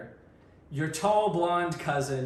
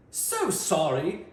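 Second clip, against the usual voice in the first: put-on British accent; 3 semitones higher, 4 dB louder, much slower than usual. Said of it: "he apologizes in his best British accent".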